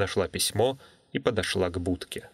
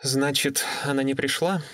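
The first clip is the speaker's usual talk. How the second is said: put-on young woman voice; 4 semitones higher than usual. Natalie on the phone.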